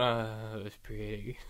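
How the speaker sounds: low, soft, drawn-out moony mumble; dopey lovesick mock. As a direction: imitate a dim staring admirer, very quietly. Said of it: "he's going".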